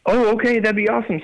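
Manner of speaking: high-pitched retold yes; eager acceptance. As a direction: lightly act out a thrilled, polite yes. Retells his eager acceptance.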